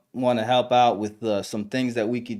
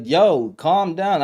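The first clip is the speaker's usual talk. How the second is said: peacemaker; 5 semitones higher, 5 dB louder, much slower than usual. Retold or imitated. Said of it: "trying to be a peacemaker".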